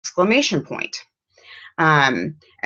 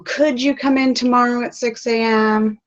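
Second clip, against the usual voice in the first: high, asking lilt; a boss politely asking, rising question; 9 semitones higher than usual. Shown as a demonstration. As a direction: ask it gently like a request. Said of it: "doesn't say".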